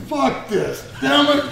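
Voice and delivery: hammed-up angry retort to the beating; angry outburst. Wrestler quoting himself after being hit, mock angry. Retelling a fight, angry quote.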